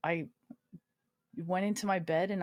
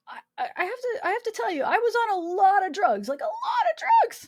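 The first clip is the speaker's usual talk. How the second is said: high, loud, laughing through the words; can barely get it out for laughing; giggling admission of being drugged up; laughing confession; 7 dB louder than usual. Real, not acted. Laughing confession about drugs.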